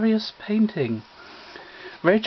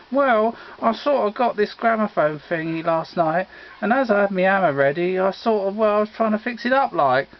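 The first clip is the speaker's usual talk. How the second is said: Reg's bumbling voice; 3 semitones higher than usual. Acted. Reg answers the lieutenant.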